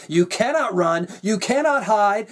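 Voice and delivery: 1 devilish crone laugh. A narrator's reading. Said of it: "the king laughed on like a devilish crone".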